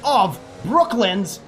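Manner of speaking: live race play-by-play; motorsport commentator. Real, not acted. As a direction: call the race as it unfolds.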